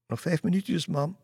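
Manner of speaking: put-on high, loud child reply; girl calling back to her mother, pleading. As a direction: plead for five minutes, calling. Girl answers mother from bathroom.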